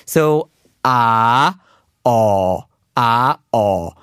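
alternating open and rounded "ah"; saying ahh. Shown as a demonstration. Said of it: "a very clear difference".

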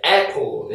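apple with a wide-open A; wide-open vowel. Shown as a demonstration. Teacher giving apple as an example, wide-open first vowel. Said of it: "입을 좀 더 크게 벌려주는 에 발음".

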